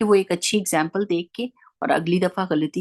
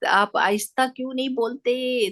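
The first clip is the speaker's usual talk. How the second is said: mild mock yell; 6 semitones higher than usual. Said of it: "اگر چیخ کے کہہ رہی".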